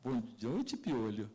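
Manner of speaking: low, teasing nickname; mocking wife. Wife greeting her husband with a mocking nickname, low. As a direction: drop it low and tease. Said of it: "ela assim".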